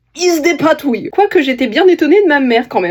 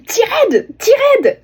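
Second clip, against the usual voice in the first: put-on high, pushy "Tirade, tirade!" in an English accent; mother calling out to her son-in-law, high and insistent; insistent mock call; 12 semitones higher, much slower than usual. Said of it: "elle lui a dit".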